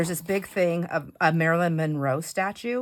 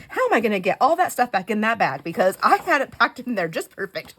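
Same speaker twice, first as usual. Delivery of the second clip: fretful worry; 4 semitones higher, 6 dB louder than usual. Retold or imitated. Inner worry while bag emptied.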